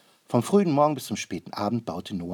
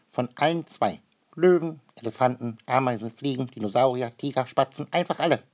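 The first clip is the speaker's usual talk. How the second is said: amazed bird voice; 4 semitones higher, 5 dB louder than usual. A narrator's reading. Maruffel tells his wife, amazed.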